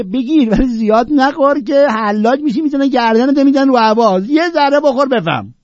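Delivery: high, loud mock warning from the old Sufi; voicing the Sufi. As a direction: play the Sufi calling out a warning, pitched high. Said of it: "صوفی میگه".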